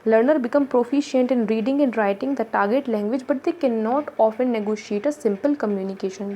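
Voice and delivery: very slow, word-by-word reading of the slide; teacher reading notes aloud, very slow; slow bullet reading. Acted. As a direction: dictate it so students can copy. Reads bullet point aloud slowly.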